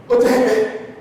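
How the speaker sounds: high, halting, tearful voice; imitating a tearful student. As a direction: mimic a student about to cry, slowly. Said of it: "and she started crying".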